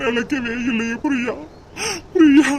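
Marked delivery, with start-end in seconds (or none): 2.1-2.5 anguished cry. Acted. Son cries out for Priya.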